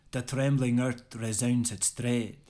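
an amateur Scottish brogue, declaimed with gusto; a modest Scottish accent, performing the poem for a friend. Acted. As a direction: recite Burns in a lightly put-on Scottish accent. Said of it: "excuse the poor Scottish voice".

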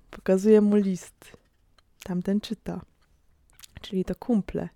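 hushed unvoiced whisper while spying. Watcher whispering to his friend about the letter, hushed whisper. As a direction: breathe it so they won't hear.

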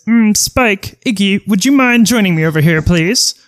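high, silky villain request; villain summons minions. Acted. Koopa calling Spike and Iggy over, high silky villain voice. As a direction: call your minions over sweetly. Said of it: "And he says".

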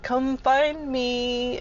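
high, very slow sing-song call; teasing foreman. Retold or imitated. Foreman calling out across the floor, high slow teasing sing-song. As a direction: coax her to come looking, playfully. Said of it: "So I'd hear him be like".

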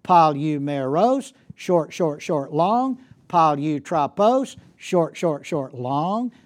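Palumeros and Palutrapos said slowly, three short beats then a long last one. Shown as a demonstration. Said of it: "first three syllables with a short vowel".

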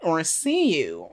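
slow "Or see you?" with a falling, loaded "see"; knowing wink. Shown as a demonstration. Podcaster recasts the text slowly as a flirty "Or see you?". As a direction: draw out "Or see you?" like an innuendo. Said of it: "Wink, wink".

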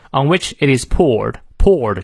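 "poured" stressed at the end. Shown as a demonstration. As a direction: land firmly on "poured". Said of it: "poured重读".

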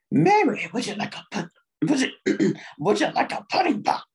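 lightly voiced pudding-pop pitchman; Bill Cosby impression. Comic talking dirty to Mary, mock Cosby come-on. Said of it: "Here's Bill Cosby".

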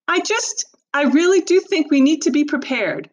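high, strained near-tears voice; tearful mother. Acted. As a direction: hold back tears as mother.

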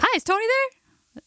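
impression of brother's friend. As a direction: play a dopey kid on the phone. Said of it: "me doing an impression of my brother's friend".

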